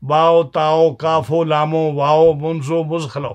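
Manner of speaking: باؤ، لامو، کافو each letter closed with an o sound; poetic o ending. Shown as a demonstration. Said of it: "او کر کے پڑھتے ہیں نا". (او کے ساتھ حروف پڑھنا)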